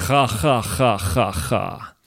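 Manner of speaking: mock Russian laugh, fading out; staged ha-ha that trails away. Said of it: "Ich lache auch noch einmal russisch".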